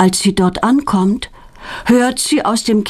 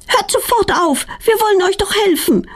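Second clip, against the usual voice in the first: much higher, fussing at the bees; grumbling scolding; 13 semitones higher than usual. A narrator's reading. Girl scolding bees that attack her friend, mildly cross. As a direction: scold the angry bees, a mild telling-off. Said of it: "meckert Petronella".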